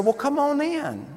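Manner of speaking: put-on high, soft southern old lady's welcome; southern accent. Elderly widow inviting the preacher in, mild Southern accent impression. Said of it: "sound about like this".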